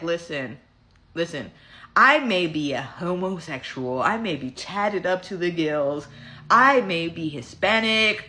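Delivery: slow, measured, low retort. Retold or imitated. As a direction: lay it out slowly and firmly. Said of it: "I will lower my register".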